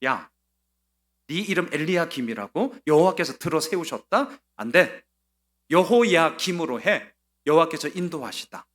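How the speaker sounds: a hint of a sneering king's voice; mock the boy king with a sneer; mocking Egyptian king. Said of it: "이런 거죠". (비웃는 왕의 말투를 살짝 흉내)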